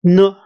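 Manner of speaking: N as a loud "nuh"; isolated, punched "nuh" for N; demonstrated sound. Shown as a demonstration. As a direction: say N as its sound, as in night.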